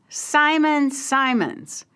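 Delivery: slow, drawn-out mocking call of the name; mob jeer. Mob member jeering at the victim, slow mock call. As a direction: drag the name out like a taunting mob. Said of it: "And one comment is".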